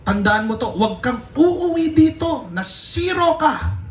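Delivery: a mock-stern dad laying down the law; imitating a furious father scolding his son; angry father. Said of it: "Galit na galit si tatay".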